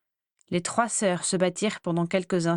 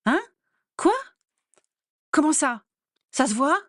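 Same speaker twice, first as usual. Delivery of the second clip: higher, louder panicked questions; rising alarm, each question more frantic; panicking; 7 semitones higher, 3 dB louder than usual. A narrator's reading. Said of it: "s'affola Andromeda".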